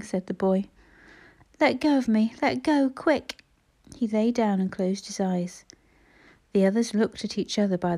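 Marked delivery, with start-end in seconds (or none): 1.6-3.4 higher, insistent, dragging out the end; urgent, pained demand. A narrator's reading. Injured boy to the children holding him up, urgent demand. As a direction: demand release, pitch raised.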